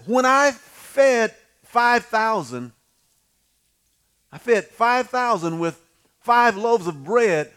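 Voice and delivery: slow, weighty words of Jesus; solemn Jesus voice. Acted. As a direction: speak as a patient teacher, slowly. Voicing Jesus, preaching slowly.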